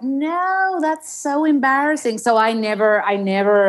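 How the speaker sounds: high, protesting General American; embarrassed refusal in a put-on American accent. Shown as a demonstration. Telling co-host why she never practised, American accent. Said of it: "we'd talk in an American accent".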